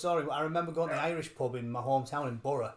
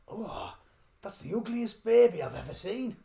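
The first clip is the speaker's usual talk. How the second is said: blunt bus driver; 6 semitones higher, 5 dB louder than usual. Retold or imitated. Bus driver in retold joke.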